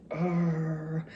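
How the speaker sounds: drawn-out "arr" of annoyance, not really shouted; mock frustrated yell. Speaker retelling being disturbed in the bathtub, mildly growled yell. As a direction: imitate a contained cry of frustration.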